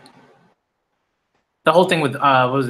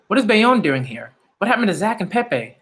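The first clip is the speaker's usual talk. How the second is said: stunned fan reaction; surprised; 6 semitones higher than usual. Real, not acted. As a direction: ask it like you can't believe he's here. Surprised by character's arrival.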